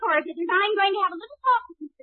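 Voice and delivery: furious wife barging past; worked-up anger. Acted. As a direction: storm off to have it out. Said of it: "I did get sort of, uh, excited".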